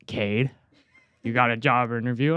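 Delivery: a father who can't believe his son got an interview; dad's surprised question. Retold or imitated. Dad reacting in surprised disbelief to Cade's news. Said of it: "He seemed surprised".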